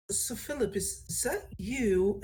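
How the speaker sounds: hesitant, puzzled character drawing out the question; confused. Acted. Galazar asks whether the changed figure is Philip, confused. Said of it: "and he looks confused".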